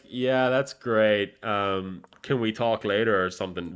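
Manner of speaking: dry, slow, uninterested. Retold or imitated. Brushing off his girlfriend's happy news, a dry dismissal. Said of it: "Very dryly to her".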